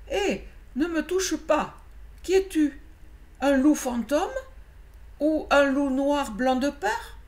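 voix aiguë et forte, sursaut de peur; loup noir effrayé. Acted. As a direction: repousser l'inconnu, affolé. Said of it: "Il eut un léger sursaut". (le loup noir, surpris et apeuré, crie)

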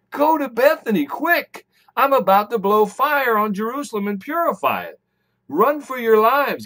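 voicing an urgent order to escape; urgent warning. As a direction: preach it as an urgent call to flee. Preacher voices Jesus's urgent warning.

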